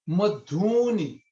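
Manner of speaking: slow "madhuni" with ma and ni short and the dhu drawn out long and nasal. Shown as a demonstration. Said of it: "dhu becomes longer sound with the nasal sound".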